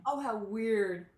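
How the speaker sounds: loud, drawn-out amazement; amazed. Real, not acted. Listener reacts to grandmother's city coincidence, amazed. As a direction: stretch the words out, marvelling.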